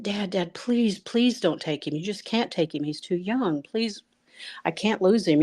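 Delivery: mother pleading with her late father for her son; begging. Retold or imitated. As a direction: beg through rising distress. Begging dad in dream.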